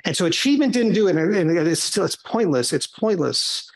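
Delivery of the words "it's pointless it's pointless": nagging inner voice. Retold or imitated. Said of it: "nagging voice in the back of my head".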